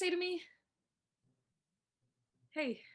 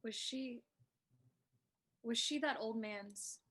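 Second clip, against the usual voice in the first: soft, slow stunned murmur; half to herself, stunned; hushed; 8 dB quieter, slower than usual. Acted. Stunned realization after story.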